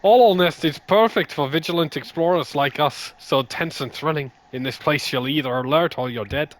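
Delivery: mild Irish lilt. Acted. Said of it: "You're going Irish".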